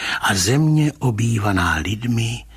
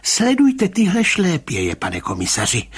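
trembling voice; 11 semitones higher, 4 dB louder than usual. A narrator's reading. Rybka urging the commissioner to follow footprints, high agitated voice. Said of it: "pravil pan Rybka rozechvělým hlasem".

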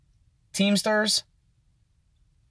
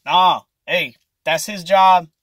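a lightly voiced cook refusing, a bit higher; dismissive fry cook; 4 semitones higher, 4 dB louder than usual. Fry cook turns down the manager, lightly voiced refusal. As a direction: shrug it off, eyes on the fryer.

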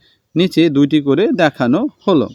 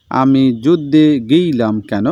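slow, lightly southern Bengal reading; a touch of south Bengal dialect, drawn out; south Bengal twang again; slower than usual. Shown as a demonstration. Teacher repeats the soldier's question in a mild south Bengal twang. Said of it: "সেই টানের সঙ্গে".

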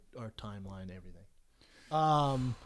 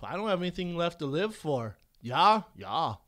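mock Wisconsin accent. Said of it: "He's all, he's all".

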